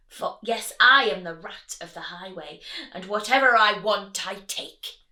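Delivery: loud, bossy highway rat; villain rat. Acted. Highway rat demanding food from the rabbit, loud and bossy. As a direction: bark demands like a bully bandit. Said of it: "who cried out".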